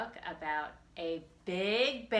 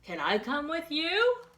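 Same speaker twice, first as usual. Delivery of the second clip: timid bear; 9 semitones higher, 6 dB louder than usual. Acted. Bear voiced high.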